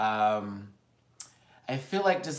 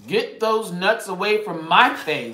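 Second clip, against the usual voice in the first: quoted catchphrase; 5 semitones higher, 5 dB louder, slower than usual. Retold or imitated. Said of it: "how that got so popular".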